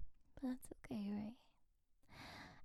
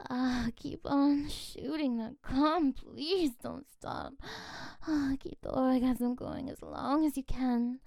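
breathy moaning urging; 2 semitones higher, 4 dB louder than usual. Acted. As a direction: moan the words out, slow. Moaning encouragement at the climax.

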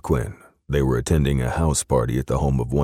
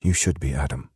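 higher British woman's voice; British accent, pitched up; 6 semitones higher than usual. A narrator's reading. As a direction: warn him in a British accent. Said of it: "in her soft British accent".

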